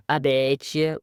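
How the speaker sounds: squeaky boastful little mouse; high, fast cartoon mouse voice. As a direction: rattle it off high and quick. Quoting Blabbermouse's boast.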